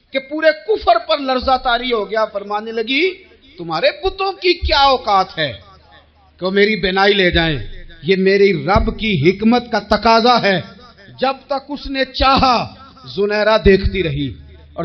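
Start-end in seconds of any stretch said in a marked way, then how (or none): 3.6-10.6 defiant reply. Retold or imitated. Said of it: "اتنی قوت سے بولی".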